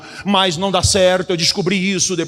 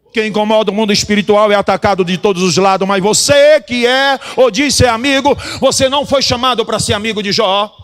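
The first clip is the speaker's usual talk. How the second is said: raised, insistent pulpit voice; forceful preaching; 5 dB louder than usual. Real, not acted. Preacher telling believers their calling, emphatic preaching. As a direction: press the warning home to the congregation.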